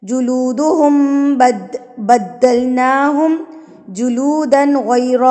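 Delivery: slow, measured tajweed chant; Quran recitation. Acted. Teacher reciting the verse for students, measured chant. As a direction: recite each phrase slowly with long vowels.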